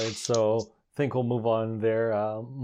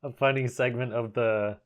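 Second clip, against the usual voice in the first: talking through real laughter; amused, laughter bubbling into the words; laughing. Real, not acted. Podcast host explaining laughing at the Balloon Fight mention, laughing. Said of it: "I'm, I'm laughing".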